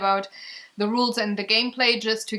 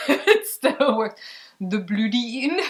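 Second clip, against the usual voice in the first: French accent. Shown as a demonstration. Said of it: "If you say it with a French accent".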